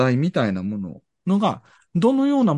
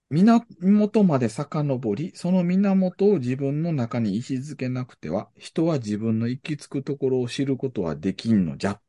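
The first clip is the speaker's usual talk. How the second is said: slow emphatic quoting. Retold or imitated. Re-reads key passage slowly.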